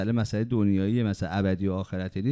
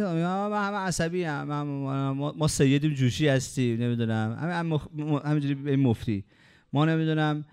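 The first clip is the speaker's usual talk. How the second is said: whiny mock voice of someone making excuses, rising higher at the start; mocking excuse-maker; 4 semitones higher than usual. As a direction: play a self-pitying hothead hamming up his excuses.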